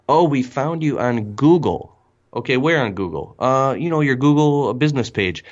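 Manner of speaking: customer voice. Retold or imitated. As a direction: play the customer calling in, offhand. Customer voiced answering Keith.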